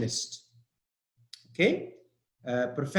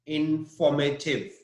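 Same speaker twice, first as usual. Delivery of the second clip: "informative" as in-FOR-mative; stress on FOR. Shown as a demonstration. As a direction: lean on the second syllable of "informative". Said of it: "on for".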